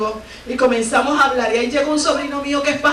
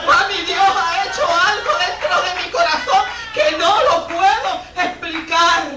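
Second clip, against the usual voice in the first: overjoyed son; 4 semitones higher than usual. Retold or imitated. Son's overjoyed report to mother.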